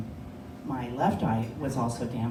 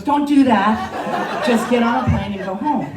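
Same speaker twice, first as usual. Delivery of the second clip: mock stern doctor; 6 semitones higher, 9 dB louder than usual. Doctor warns her, voiced.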